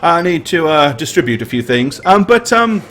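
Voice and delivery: put-on flustered, hesitant young messenger; nervous messenger. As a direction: stammer it out like a parched messenger. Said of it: "he looks around and he says".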